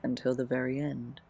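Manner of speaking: measured poem reading with long pauses. Acted. Sharing own teenage poems with listeners, poem reading. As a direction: read it line by line, letting each phrase rest.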